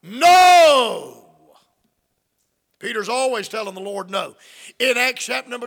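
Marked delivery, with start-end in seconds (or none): 0.0-1.3 blunt shout. Acted. Peter's blunt reply to Lord.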